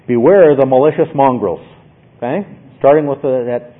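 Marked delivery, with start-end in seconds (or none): 0.1-1.7 louder, firm warning with "Beware" leaned on; emphatic warning. Shown as a demonstration. Preacher rendering Paul's Greek in English, firm on Beware. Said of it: "we might say in English".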